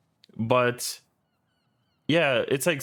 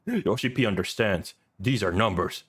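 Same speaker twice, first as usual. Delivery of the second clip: lower, deadpan mock translated speech; Yoshi P; 4 semitones lower than usual. Game director answering his producer about stats, in mock-solemn voice. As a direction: play a solemn executive in stilted, lowered tones. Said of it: "the way he phrased that one sentence".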